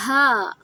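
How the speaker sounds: loud, drawn-out "ہا" pushed from the chest; chesty Ha. Shown as a demonstration. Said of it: "سینے سے زور لگا کر". ("ہا" سینے سے زور لگا کر)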